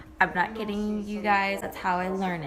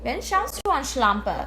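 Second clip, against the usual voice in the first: Wen schaust du an, Schlampe spat out high and sharp; German insult with attitude; 3 semitones higher than usual. Acted. To the man who upset her, a sharp German sneer. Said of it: "So here it is, ladies".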